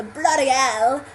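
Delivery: rough-and-ready English accent; bloody-hell English accent. Shown as a demonstration. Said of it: "kind of English accent".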